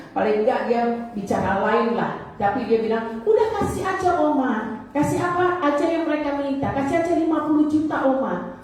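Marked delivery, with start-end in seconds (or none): 3.2-8.5 put-on higher, pleading young girl voice; imitating pleading granddaughter. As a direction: beg Oma like a frightened granddaughter. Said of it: "suaranya persis dengan Tresia".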